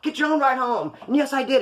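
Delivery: high, drawn-up mocking call; parting taunt. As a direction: toss it back high and defiant. Wife yells back while driving off.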